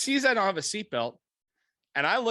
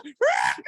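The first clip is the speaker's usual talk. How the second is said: loud high screech of tires; imitated tire chirp; 9 semitones higher, 4 dB louder than usual. Storyteller imitating the cop driving off, screeching noise. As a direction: mimic a car peeling out. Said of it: "chirps out of the fucking thing".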